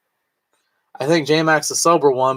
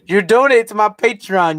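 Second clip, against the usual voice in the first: mock demanding shout; 7 semitones higher, 5 dB louder than usual. Begging viewers loudly.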